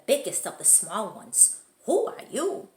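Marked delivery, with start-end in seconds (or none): 1.9-2.7 high, loud challenge; challenging chihuahua. Acted. Chihuahua gang asking the stranger, high and loud. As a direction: demand it from a tiny dog.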